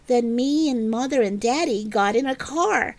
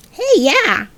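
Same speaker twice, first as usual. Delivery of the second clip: higher, louder perked-up cry; perky; 8 semitones higher, 4 dB louder than usual. A narrator's reading. Junie B cheering up at the elephant's plan, perky and higher. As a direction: brighten right up at the idea. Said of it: "I felt a little perkier".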